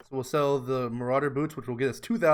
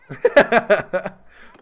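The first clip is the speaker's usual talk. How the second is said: high burst of laughter; loud laugh; 6 semitones higher, 10 dB louder than usual. Real, not acted. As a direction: laugh at own voice. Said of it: "That's my elf voice".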